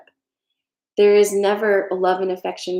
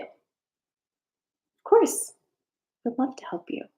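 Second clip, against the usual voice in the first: eager friend; 6 semitones higher, much slower than usual. Retold or imitated. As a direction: happily agree to help.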